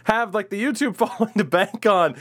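lightly voiced casual friend. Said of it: "your experience has kind of just been like".

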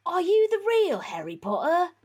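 high, put-on accented character voice; old man. A narrator's reading. Old man questioning Harry, high character voice. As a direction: play the old man asking, pitched well up. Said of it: "whispered the old man".

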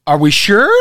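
"sure" curving up into a question; uptalk. Shown as a demonstration. Coach illustrating uncertainty in intonation, uptalk on "sure". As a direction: let "sure" rise as if doubting it. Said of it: "up curve on the end of a phrase".

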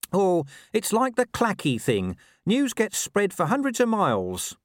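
high-pitched, animated dog voice; Gaspode, explaining. Acted. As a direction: explain it as a streetwise mutt.

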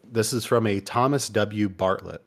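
words pushed out through a burp; speaking mid-burp; talking while burping. Real, not acted. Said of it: "I'm sorry, I'm burping".

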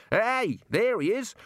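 high-pitched shout of discovery; shouted call. A narrator's reading. One of the men spots Rincewind, shouting out. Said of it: "One of them shouted".

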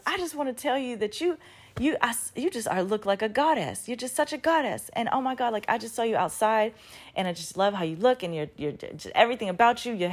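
gushing admirer. Retold or imitated. Young woman compliments a stranger in a store, imitated gushing.

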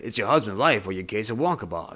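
lightly imitated Northeastern detective; hint of a put-on Northeastern accent. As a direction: imitate a New York or Boston detective. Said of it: "I don't know what accent".

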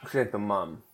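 talking while chewing gum. Real, not acted. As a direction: say it around a wad of gum. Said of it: "Sorry, I got gum".

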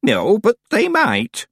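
high, loud, drawn-out insistence; stoutly. A narrator's reading. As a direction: stand your ground, slowly and firmly. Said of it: "said Miss Treason stoutly".

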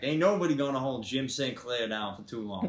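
defiant Southern boast; Southern accent. Acted. Jim boasting death can't hold him, Southern accent. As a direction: brag like an unkillable Southern gentleman. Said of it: "Who is the better Southern accent?".

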